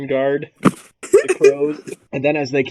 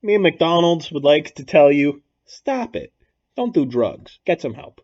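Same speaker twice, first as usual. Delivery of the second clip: commercial imitation. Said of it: "that Michael Jordan McDonald's drug commercial".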